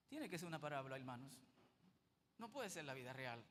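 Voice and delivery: a stunned, hushed aside; hushed disbelief. Acted. Preacher to his brothers, hushed and stunned. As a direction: drop to a hushed murmur. Repeats disbelief, dropping to near whisper.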